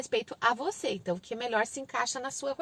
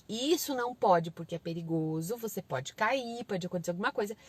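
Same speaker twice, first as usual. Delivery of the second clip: lower, lecturing parent voice; mild parental warning; explaining parent; 4 semitones lower than usual. Shown as a demonstration. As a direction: reason patiently with a child. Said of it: "Você pode explicar".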